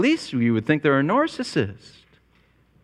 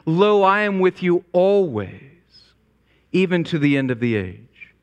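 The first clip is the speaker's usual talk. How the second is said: solemn promise; 4 semitones higher than usual. Retold or imitated. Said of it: "he reassures them by saying".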